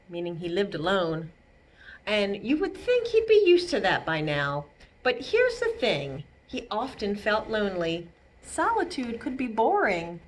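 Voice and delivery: gentle read-aloud narration; storybook reading. A narrator's reading. Reading Elmore's story aloud to children, gently. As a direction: tell it like a bedtime story. Reading picture book to kids.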